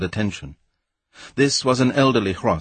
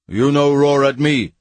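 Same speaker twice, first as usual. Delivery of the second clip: higher, louder indignant roar; thundering; 5 semitones higher, 5 dB louder than usual. A narrator's reading. Weston answers the roaring crowd, thundering. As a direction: thunder it in broken English. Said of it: "he thundered".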